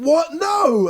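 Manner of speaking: play-acted, very high, half-kidding shout. Speaker retells protesting when a man planned to give the sign away, with a joking yell. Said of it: "I start like kind of yelling, but joking".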